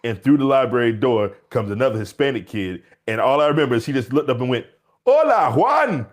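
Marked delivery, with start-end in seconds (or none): 5.1-6.1 high, loud, drawn-out greeting; calling across the room. Retold or imitated. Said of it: "calls him across the library".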